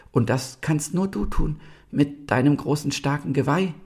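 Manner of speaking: put-on high, earnest young deer; slightly trembling. A narrator's reading. Young deer pleads with the mighty stag, slightly trembling. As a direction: plead bravely with a tiny quiver. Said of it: "einer Stimme, die ein ganz klein wenig bebte".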